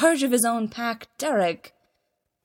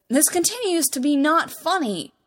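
indignant; 8 semitones higher, 6 dB louder than usual. Acted. Stiles protests, poking Derek.

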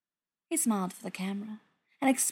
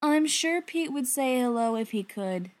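light, higher mock-friendly villain; smug villain; 4 semitones higher than usual. A narrator's reading. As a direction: feign politeness with menace. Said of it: "Gerard said".

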